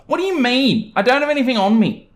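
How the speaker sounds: high, fast, fake innocent whine; entitled mum, playing innocent. Entitled mum denying she has the box to the employee, high and quick. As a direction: pretend you have nothing.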